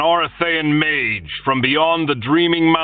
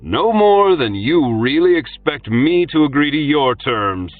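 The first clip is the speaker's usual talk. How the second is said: louder, higher, cheerful shout; 9 semitones higher, 5 dB louder than usual. A narrator's reading. Arlian shouting back cheerfully at his enemy in the window. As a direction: shout it back, enjoying the standoff. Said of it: "Arlian shouted back cheerfully".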